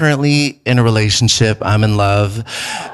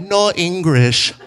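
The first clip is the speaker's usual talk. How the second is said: slow flat "No English"; deadpan refusal; grandma playing dumb; mock grandma; 2 semitones higher, slower than usual. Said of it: "and said".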